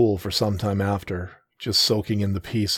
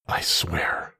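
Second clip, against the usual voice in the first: whisper; 4 semitones lower than usual. Acted. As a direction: breathe the promise. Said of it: "I whispered".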